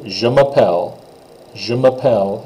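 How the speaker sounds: Je m'appelle, falling on mappelle; teacher demo; French pronunciation. Shown as a demonstration. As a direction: model Je m'appelle. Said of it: "this one up here".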